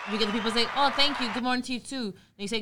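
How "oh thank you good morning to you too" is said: higher-pitched, mock-sweet greeting; polite reply. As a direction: imitate an overly polite passer-by. Voicing the polite people.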